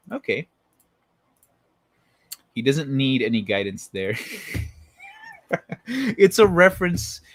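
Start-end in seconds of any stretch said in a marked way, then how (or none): 5.9-7.2 slow, loud and drawn out; slow dramatic declaration; drawn-out announcement. Shown as a demonstration. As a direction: stretch each word like a big reveal. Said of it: "It's a reference to".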